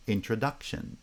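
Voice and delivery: main stress on the third syllable of introduction; introduction, lighter first stress, strongest on duc; primary stress on second foot. Shown as a demonstration. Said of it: "introduction has primary stress on the second foot".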